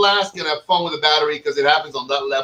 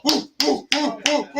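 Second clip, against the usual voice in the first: Arsenio Hall woo; 8 semitones higher, 4 dB quieter than usual. Retold or imitated. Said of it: "In the words of Arsenio Hall".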